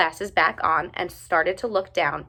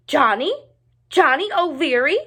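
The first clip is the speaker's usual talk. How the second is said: louder, higher booming call; calling loudly; 7 semitones higher, 5 dB louder than usual. A narrator's reading. Giant teacher calling for Johnny from above. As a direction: call his name across the sky. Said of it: "voice echoed loudly".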